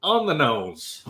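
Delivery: slow, high mock quote; lightly mimicked robot taunt; imitating taunt. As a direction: drag out the gnome's phrase. Player quotes gnome's taunt.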